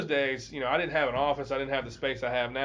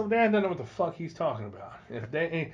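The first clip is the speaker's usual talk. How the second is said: raised pitch, pressing the point hard; mild retold outburst at the father; heated pleading; 5 semitones higher than usual. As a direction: argue the father round, getting worked up. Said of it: "And I said".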